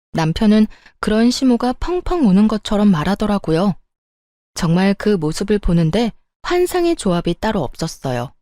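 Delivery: ordinary delivery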